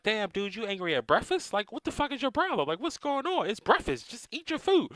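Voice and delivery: mock-baffled stand-up bit, going up and up; Cat Williams impression. Quoting the comedian's breakfast joke, squeaky mock disbelief. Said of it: "He's like".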